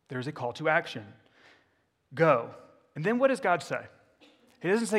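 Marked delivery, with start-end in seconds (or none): 2.1-2.5 a loud single Go; commanding go. Shown as a demonstration. Preacher urging church to act, loud command. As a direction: bark out the command Go.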